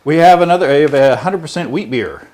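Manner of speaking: breathless, still catching breath. Real, not acted. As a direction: talk while winded. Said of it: "Cover me, I'm out of breath".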